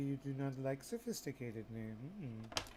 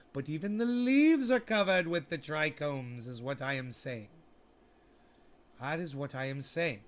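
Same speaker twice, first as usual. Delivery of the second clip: mock English accent; 3 semitones higher, 7 dB louder than usual. Explaining trichomes to viewers, mock English accent. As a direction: keep up the proper English act. Keeps posh voice while trimming.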